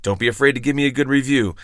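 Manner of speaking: measured host read with punched phrases; polished outro read, drawing out key phrases; scripted podcast sign-off. Acted. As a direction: deliver a rehearsed last-call bit to listeners.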